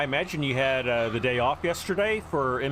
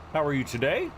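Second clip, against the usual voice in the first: talking while chewing; words through a mouthful of food; mouth full; 5 semitones higher than usual. Real, not acted. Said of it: "I'm talking with my mouth full".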